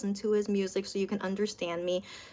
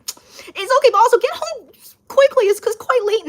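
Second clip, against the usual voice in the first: caring nudge; 11 semitones higher, 6 dB louder than usual. Real, not acted. Urging viewer home late at night.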